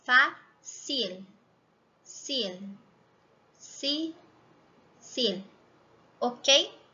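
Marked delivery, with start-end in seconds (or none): 0.0-5.4 fácil, then sil, si, sil, with the tongue tapping behind the teeth on the L; drilling the final L syllable. Shown as a demonstration. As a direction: split off the syllable and hit the L. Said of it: "Ela vai tocar atrás dos dentes".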